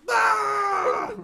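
sudden high yelp; loud yelp. Retold or imitated. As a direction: let out a sharp yell. Shout after movie quote.

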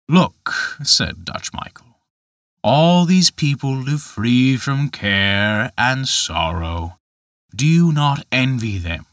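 slow, proud showman of a lightly voiced giant; a hint of a gloating giant; Dutch Michael, proud. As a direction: show off the collection, savouring it. Michael showing his hearts.

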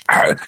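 imitated hoarse bark; mock squeaky, raspy bark; hoarse dog bark. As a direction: bark like a dog that's lost its voice. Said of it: "it squeaks and it's hoarse".

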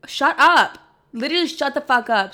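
a burst of giddy excitement; excited outburst. Real, not acted. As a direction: cut yourself off in gleeful disbelief. Gushing over her own joke.

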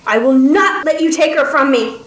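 understated angry roar; restrained roar. Acted. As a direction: refuse fiercely without full volume. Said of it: "Albrecht roared".

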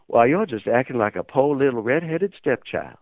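a light imitation of a nice Southern lady's accent. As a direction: retell the boss's jab with a hint of a Southern accent. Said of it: "in a nice Southern accent".

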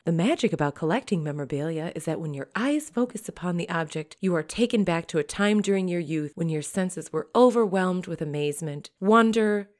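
a lightly put-on auction-house announcer read; a hint of a news-anchor read. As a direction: read the press release like a promo. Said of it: "What is this voice you're using?".

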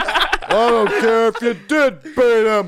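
slow, mock scolding mom voice; sharp scolding mother. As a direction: scold him like a hammy mother. Voicing mom scolding son.

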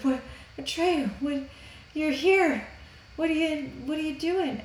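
high, fretful little Empress voice; lightly voiced worried young Empress.

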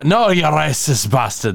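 put-on reluctant stab at an Irish accent; limited Irish accent attempt. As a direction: try an Irish accent, half-heartedly. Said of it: "that's the best I got".

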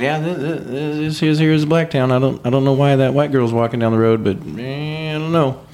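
lightly imitated Southern lady; sweet Southern lady. Sweet Southern lady puzzling over a passerby, lightly imitated. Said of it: "sweet Southern lady".

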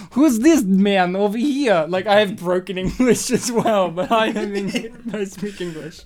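mock Russian accent with a laugh creeping in. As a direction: put on a poor comic Russian accent. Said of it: "speaking in a Russian accent".

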